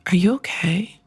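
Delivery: whispered fake concern; a breathy, faux-caring aside; mock concern. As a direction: hush it like you're worried for them. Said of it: "I would be like".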